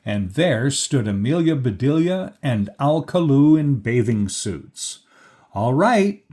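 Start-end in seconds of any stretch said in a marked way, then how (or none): 5.5-6.2 high, loud call to the others. A narrator's reading. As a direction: call out that it's time. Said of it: "called Amelia Bedelia".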